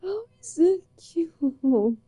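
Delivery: stretching the words out, baffled; incredulous protest. Real, not acted. Protesting partner calls her cute.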